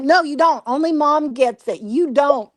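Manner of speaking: high mock-indignant comeback; imitated arguing son. Son arguing back at father.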